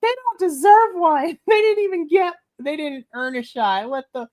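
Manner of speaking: high-pitched, laughing indignation; mock fury. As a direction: rant shrilly about the undeserved title shot. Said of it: "I was so mad".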